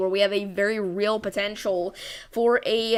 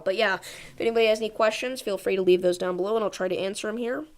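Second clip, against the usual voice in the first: out of breath. Real, not acted. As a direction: talk while still catching breath. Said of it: "Let me catch my breath".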